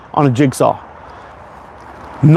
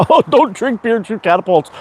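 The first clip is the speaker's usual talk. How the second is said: laughing; 7 semitones higher than usual. Real, not acted. Laughing, repeating a chat comment.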